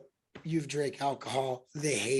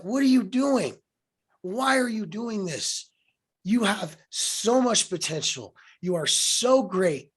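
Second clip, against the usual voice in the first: higher, emphatic mock scolding, retold; imitated scolding; 3 semitones higher, 5 dB louder than usual. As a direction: imitate a tough-love telling-off, pressing each question. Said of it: "like, scolding me".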